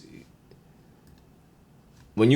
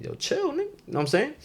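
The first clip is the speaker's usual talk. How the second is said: mock high-pitched backing down; 7 dB quieter than usual. Voicing the other guy backing down.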